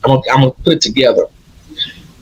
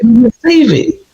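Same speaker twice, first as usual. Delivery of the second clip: elated; 7 semitones higher, slower than usual. Retold or imitated. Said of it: "I'm like".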